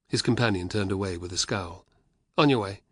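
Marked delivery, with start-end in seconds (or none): 2.4-2.8 firm order, "On" stressed, near normal pitch. Acted. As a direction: order him on, clipped and firm. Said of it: "ordered the legionary".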